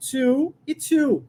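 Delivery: To e to, both said the same way, slowly; to and to, identical sounds; same too sounds. Shown as a demonstration. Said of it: "Não tem diferença na pronúncia".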